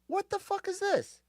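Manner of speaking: high, fast hushed what-the-fuck; startled self. Retold or imitated. Retelling biting a rock in his beans, high startled blurt. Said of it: "So I'm like".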